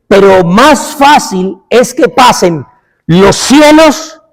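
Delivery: slow, weighty, every phrase set apart; solemn assurance. Acted. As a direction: declare it slowly like a sacred promise. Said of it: "Jesús habla y asegurando dice".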